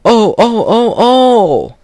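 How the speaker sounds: high, loud wailing trucks; crying trucks. Acted. Trucks bumped together again, high wailing cry. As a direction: wail like toy trucks bumping. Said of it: "they cried again".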